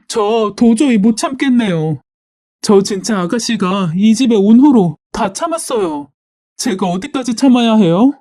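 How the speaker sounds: mildly acted end of patience; exasperated appeal. Wife appealing to mother-in-law, exasperated plea.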